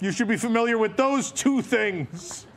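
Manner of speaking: a hint of exasperated mother; indignant mother. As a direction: wrap up the mock telling-off. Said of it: "I probably have a text from my mother".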